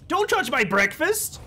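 mock-offended about breakfast; mock defensive. Real, not acted. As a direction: protest playfully, drawn out. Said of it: "defensive about breakfast".

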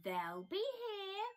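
declaring. Acted. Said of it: "Bear declared".

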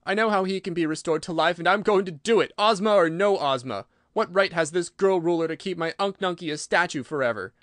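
high, loud, upset protest; defiant outburst. Acted. Ojo defying the girl ruler for his uncle, defiant outburst. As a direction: insist loudly, refusing to be overruled. Ojo tearfully defies Ozma's rule.

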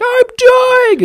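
high squeaky shouted death cry; mock dying Eggman. Gamer voicing Eggman's dramatic defeat, squeaky shout. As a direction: wail like a cartoon villain going down. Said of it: "he's like".

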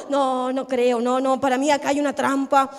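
mildly hammed-up doubter, pitched low; suspicious disbelief. Doubter offered work suspecting a trap, suspicious disbelief.

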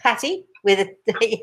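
"Patty" with both T's fully sounded, British style, not flapped; crisp English T's. Shown as a demonstration. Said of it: "that's my English accent".

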